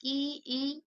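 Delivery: ई held long, said twice separately; isolated long ई for learners to copy; palatal vowel demonstrated. Shown as a demonstration. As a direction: say ई, ई softly with tongue toward the palate. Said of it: "आप ई, ई बोलिए".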